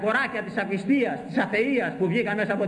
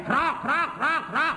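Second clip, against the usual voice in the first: mocking crow caws, pitched up; 7 semitones higher, slower than usual. Preacher mocks unbelievers as cawing crows. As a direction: caw like a crow to mock them.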